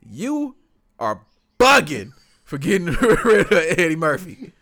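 laughing, high-pitched quote. Retold or imitated. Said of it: "called me and was like".

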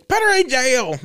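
half-hearted high holler; retold scream. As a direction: imitate a hollering mama, mildly. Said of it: "mama's at first screaming".

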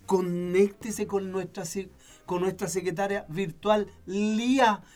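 robotic phone menu voice. Retold or imitated.

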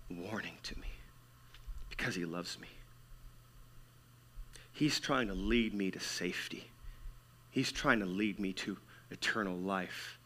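low, very soft inward prayer; quiet, humbled believer's reflection; hushed gratitude. Acted. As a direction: speak it inwardly, almost to a whisper. Voices a believer's inward grateful response.

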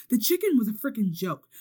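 mock-angry delivery, a touch exasperated; Sweetie going off. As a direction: act out an indignant rant, pitch lifted. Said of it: "this is Sweetie just going off".

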